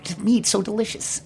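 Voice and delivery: high, soft mock gushing voice; Patrick. Host guessing what a panelist will say, playful high-voiced imitation. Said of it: "That's your Patrick impression?".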